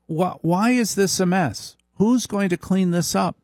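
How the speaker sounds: high nagging wife voice. Retold or imitated. Wife demanding cleanup, high nagging voice. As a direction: whine the demand like a fussy wife. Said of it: "it goes to".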